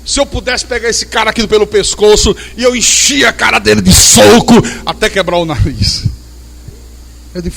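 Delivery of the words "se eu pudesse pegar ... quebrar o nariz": mock angry threat rising to a shout; retold furious threat ending in a yell. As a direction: play the angry brother boasting he'd punch the pastor. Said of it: "eu tenho tanta raiva do pastor".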